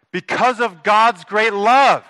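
loud, high, slow proclamation; emphatic preaching. Real, not acted. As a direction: drive each word home to the congregation, slowly. Preacher drives home the key word.

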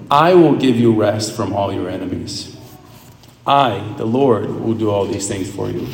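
steady solemn reading voice; reading scripture to the listeners. Acted. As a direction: read God's promise solemnly. Reads scripture aloud.

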